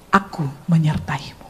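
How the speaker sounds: low, soft and assured; gentle, loving, authoritative. Retold or imitated. God reassures the frightened woman, gentle and authoritative. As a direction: speak low with tender authority. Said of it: "lembut dan penuh kasih, tapi berotoritas".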